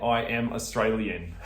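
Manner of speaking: laid-on Aussie accent, laughing; a slightly hammed-up Steve Irwin twang; Australian accent. Shown as a demonstration. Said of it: "It's kinda putting on a little bit there".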